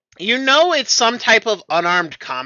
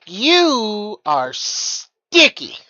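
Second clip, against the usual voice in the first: put-on playful girl voice; 3 semitones higher, much slower than usual. NPC voiced, slow drawn out.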